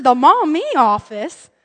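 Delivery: drawn-out disbelieving question; incredulous echo. Retold or imitated. Mom echoing the receptionist, incredulous.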